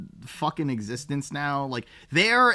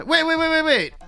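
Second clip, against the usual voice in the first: sudden surprise; 13 semitones higher, 6 dB louder than usual. Real, not acted. Realizing streamers are different.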